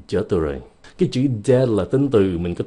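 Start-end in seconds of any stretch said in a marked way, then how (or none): none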